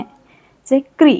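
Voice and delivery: क्री said slowly with a crisp kr cluster; slow kr demo; clear kr sound. Shown as a demonstration. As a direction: articulate the kr of क्री. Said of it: "क्र की sound आती है इसमें".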